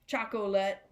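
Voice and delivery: "chocolate" as choc-oh-lit; audible middle O. Shown as a demonstration. Teacher settling the word before moving on, "chocolate" as choc-oh-lit. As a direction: sound the o clearly in the middle of "chocolate". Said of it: "a little bit of the O".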